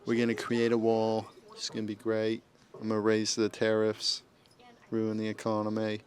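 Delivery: half-hearted impression that slips toward British; Donald Trump. Commentator jokes about the wall as a politician, weak impression. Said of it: "That was supposed to be Trump".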